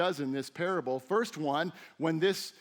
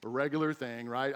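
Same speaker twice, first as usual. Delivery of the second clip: lower, softer, weary and unimpressed; a mild imitation of the bored, exasperated family; eye-rolling family; 6 semitones lower, 5 dB quieter than usual. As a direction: sigh it like an old familiar complaint. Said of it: "they just roll their eyes".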